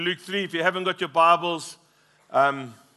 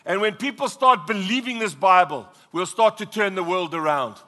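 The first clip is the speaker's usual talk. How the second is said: urgent sermon with punched key words; raised, insistent pulpit delivery; impassioned preaching; 5 semitones higher, 4 dB louder than usual. Real, not acted. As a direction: preach it forcefully, driving each phrase home. Preaches at full force.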